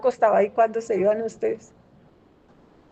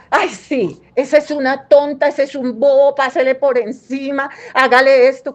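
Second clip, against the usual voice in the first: mock parent egging a child on, louder and louder; 2 semitones higher, 3 dB louder than usual. Mocking a parent who pushes the child to win, sneering.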